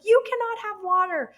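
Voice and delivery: high, loud stern no; firm refusal. Retold or imitated. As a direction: lay down the law.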